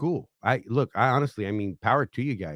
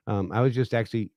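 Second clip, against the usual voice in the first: wheezing between words; short of breath, wheezy; faster than usual. Real, not acted. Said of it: "God, I'm wheezing".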